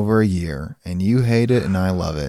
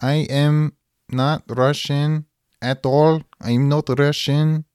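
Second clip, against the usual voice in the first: Russian robot voice; 3 semitones higher, slower than usual. Acted. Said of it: "Russian robot".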